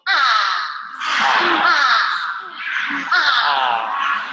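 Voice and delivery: face exercise ahs. Shown as a demonstration. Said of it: "and then go".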